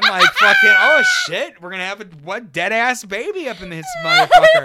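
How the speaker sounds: very high, loud panicked squeal; panicking. Retold or imitated. Kid caught up in mom's panic, very high laughing squeal. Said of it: "she's, like, panicking me".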